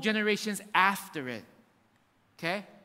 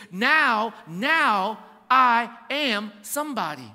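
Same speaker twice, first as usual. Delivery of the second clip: mock boast; 5 dB louder, much slower than usual. Boastful self-worth claim.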